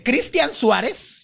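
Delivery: slow, rising incredulous echo; scornful disbelief. Retold or imitated. Diva questioning her boyfriend's authority, scornful disbelief. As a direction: throw the name back in mock disbelief. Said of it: "para que vean lo perra".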